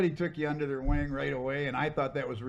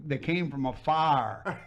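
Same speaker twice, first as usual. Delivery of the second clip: "afar" drawn out slowly as a Southern "fire"; imitated Southern accent; 4 dB louder, slower than usual. Explaining the redhead's riddle, imitated Southern accent on "afar". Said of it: "But with that accent".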